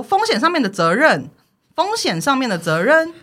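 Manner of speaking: echoing the boss's jargon to him, slow and pointed; slow mock echo. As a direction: slowly parrot the phrase back. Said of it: "我就这样子回他".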